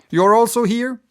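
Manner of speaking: high, loud surprised question; surprised cry. A narrator's reading. Barbicane spotting Marston, surprised high cry. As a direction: greet him with a startled lift. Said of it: "cried Barbicane".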